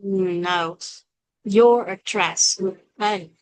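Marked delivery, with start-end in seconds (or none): 1.6-2.6 "Your address" slowly, R linking the words; slow linked "Your address". Shown as a demonstration. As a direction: run "Your" into "address" through the R. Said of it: "chèn giữa bởi chữ O này, chữ R".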